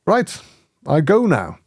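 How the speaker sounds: put-on brisk sign-off in a mild Chinese accent. Visiting teacher announces he is leaving, light Chinese accent. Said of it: "in English with a Chinese accent".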